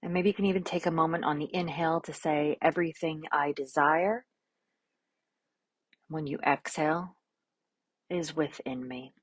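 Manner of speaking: calm, unhurried instructions with long silences; guided meditation. Real, not acted. Yoga teacher offering an affirmation and easing class into poses, calm guided meditation.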